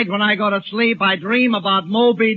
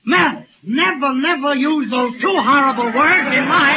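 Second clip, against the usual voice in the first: mock-horrified warning; 3 semitones higher than usual. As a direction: forbid it as if the words hurt. Married man dreading "I do.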